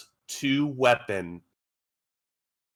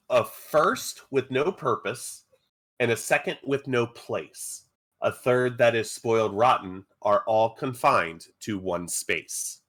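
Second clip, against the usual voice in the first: measured, deliberate verse reading; riddle recital. Acted. Game master posing a riddle to players, measured recital. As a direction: read it out line by line, with pauses.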